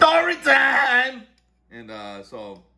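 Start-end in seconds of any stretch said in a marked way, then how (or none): 0.0-1.2 high, slow, drawn-out shout of the title; yelled announcement. Pretend. Host prompted by friend to yell story time, high drawn-out shout. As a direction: belt it out like a show opener. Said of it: "You're supposed to yell story time".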